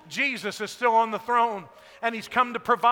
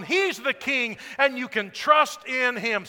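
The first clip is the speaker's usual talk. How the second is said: loud, full-force preaching to the church; preaching shout; 3 semitones higher, 7 dB louder than usual. Real, not acted. Pastor shouting to the congregation about Jesus enthroned, loud. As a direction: proclaim it at full voice from the pulpit. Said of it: "I've been yelling and shouting".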